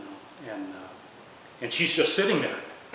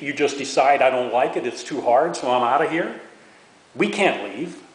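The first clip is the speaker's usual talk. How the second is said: loud, higher, indignant rant; angry outburst; 5 semitones higher, 7 dB louder than usual. Retold or imitated. Soldiers reacting to Johnson not running again, furious. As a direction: vent your outrage at a quitting president. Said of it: "what we said was".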